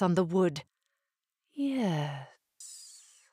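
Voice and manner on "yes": whispered serpent hiss. A narrator's reading. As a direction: hiss it like a snake. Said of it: "she hissed".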